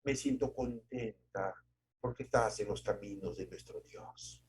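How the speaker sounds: tender mother. Retold or imitated. A proud mother softly praising her daughter Mary. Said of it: "nos decían".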